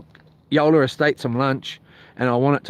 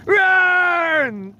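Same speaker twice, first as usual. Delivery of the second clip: neighbour's yell; 14 semitones higher than usual. Retold or imitated. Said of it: "He's like".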